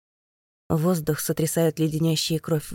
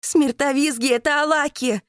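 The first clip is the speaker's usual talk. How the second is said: much higher, louder, voice torn; straining scream; 9 semitones higher, 4 dB louder than usual. A narrator's reading. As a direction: cry it out at the top of her voice. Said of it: "надрывается Катя".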